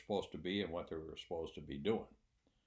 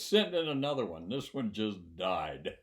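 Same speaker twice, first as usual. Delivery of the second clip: retold yell; 2 semitones higher, 7 dB louder than usual. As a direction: imitate hollering out a door, slowing at the end. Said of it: "yells out to the schedule".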